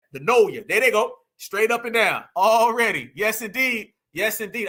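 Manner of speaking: playful demo of New Orleans talk; New Orleans accent. Shown as a demonstration. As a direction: savor each phrase in a New Orleans accent. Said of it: "I love the New Orleans accent".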